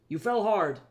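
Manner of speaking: spoken through gritted teeth. Acted. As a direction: push it through clenched teeth. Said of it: "exasperating through gritted teeth".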